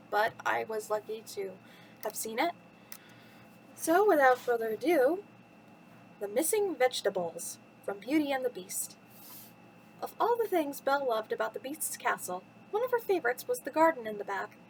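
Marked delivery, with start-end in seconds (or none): 6.2-14.6 lively storytime narration with swooping pitch; children's story reading. Acted. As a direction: read it to little listeners, lilting from phrase to phrase. Reads a children's bedtime story.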